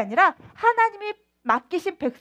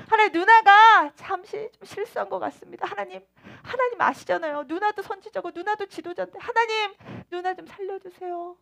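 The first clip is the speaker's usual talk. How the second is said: desperate plea; 3 semitones higher than usual. Acted. Moses begging for his sister.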